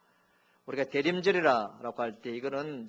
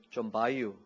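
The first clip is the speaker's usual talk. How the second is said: Chungcheong dialect; 3 semitones lower, slower than usual. Shown as a demonstration. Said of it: "충청도는".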